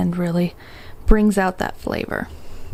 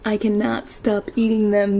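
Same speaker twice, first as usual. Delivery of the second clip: talking while chewing; mouth full. Real, not acted. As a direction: speak through a mouthful of food. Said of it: "apologize for my rudeness of talking with my mouth full".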